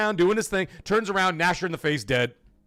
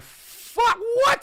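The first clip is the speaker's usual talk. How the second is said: surprised. Retold or imitated. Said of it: "I'm like".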